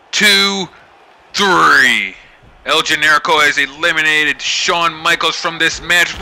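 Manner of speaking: lively wrestling commentator calling the action; play-by-play commentary. Acted. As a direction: call every move like a ringside announcer. Live play-by-play of wrestling match.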